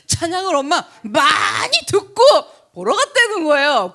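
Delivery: words breaking into laughter; laughing while telling. Real, not acted. Mother laughing about her son's scared hymns. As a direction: laugh through the story. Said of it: "나 진짜 우리 아들 엽기적이야".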